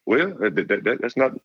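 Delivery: high-pitched mock coach voice, friendly; imitating the coach. Coach phoning a recruit late at night, high mock coach voice. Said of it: "He was like".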